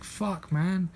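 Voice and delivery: high-pitched imitation of a tearful complaint; mock crying. Crying victim to Jackie Chan, mock distress. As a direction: play upset, voice pushed up high. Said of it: "He's crying".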